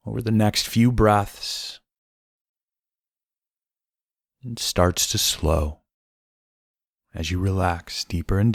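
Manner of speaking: unhurried meditation voice with long pauses; guided meditation. Acted. Host guiding listeners through breaths and body scan, calm guided meditation.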